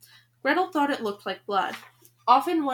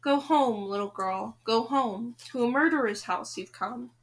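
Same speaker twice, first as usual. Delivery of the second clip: crow voice. Acted. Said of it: "a voice that sounded more like a crow's than a dove's".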